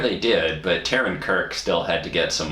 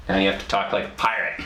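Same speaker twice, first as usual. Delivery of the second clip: quick, laughing director's order; mock director; faster than usual. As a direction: play a bossy director, half laughing. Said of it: "I'm the director".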